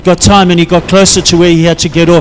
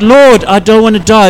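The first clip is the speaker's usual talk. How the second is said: crying out to God; 3 semitones higher than usual. Retold or imitated. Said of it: "And he cried out".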